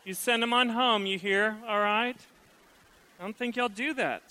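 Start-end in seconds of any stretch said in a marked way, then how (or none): 0.0-2.2 higher, breezy gossip voice, quick in places; girl chatting to friend. Retold or imitated. Preacher lampooning a wife asking friends after her man, chatty. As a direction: play a chatty neighbour girl. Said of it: "talk like that".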